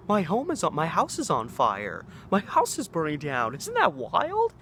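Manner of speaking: playing it off as a big joke; amused, laughing. Classmate tells the class his house burned, laughing. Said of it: "like, laughing about it".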